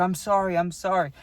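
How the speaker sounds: retold pleading sorry; profuse apology. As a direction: act out someone apologizing over and over. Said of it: "The guy was apologizing profusely".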